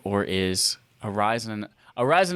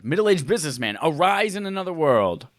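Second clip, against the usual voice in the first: 1 mock command; 4 semitones higher than usual. Shown as a demonstration. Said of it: "like a command".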